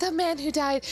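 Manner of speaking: high feminine put-on voice. Voicing Ryunosuke as he asks questions in a scene: Ryunosuke in high feminine voice. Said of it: "talking in a high-pitched feminine voice".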